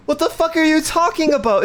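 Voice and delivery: exasperated disbelief. Real, not acted. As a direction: raise the pitch in baffled outrage. Angry game customer again.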